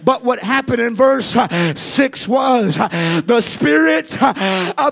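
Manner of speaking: rising, rhythmic preacher's call; fiery preaching. Acted. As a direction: preach it to the congregation. Preaching at full force.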